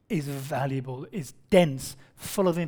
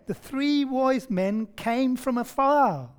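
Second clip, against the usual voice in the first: a slow, raised attempt at an American accent reading came from afar; 5 semitones higher, slower than usual. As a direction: read it out slowly in a half-hearted Yankee voice. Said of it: "uh, Yankee accents".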